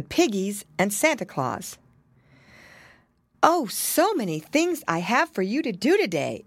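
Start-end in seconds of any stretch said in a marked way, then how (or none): 3.4-6.4 higher, animated mother's exclamation; exclaiming pig mother. A narrator's reading. Pig mother to her two boys, exclaiming. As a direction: exclaim over all the chores, voice lifted. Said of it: "exclaimed Missus Twisty Tail".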